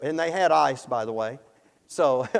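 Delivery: normal talking voice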